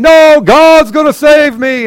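high, loud, slow, stretched-out refusal; stubborn refusal. Acted. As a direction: drag it out like a pious stubborn fool. Stubborn man refusing again.

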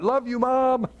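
a touch of a star athlete thanking mom; mock athlete shoutout. Pastor imitating a star athlete thanking mom on camera, lightly voiced. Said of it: "No, they go, what?".

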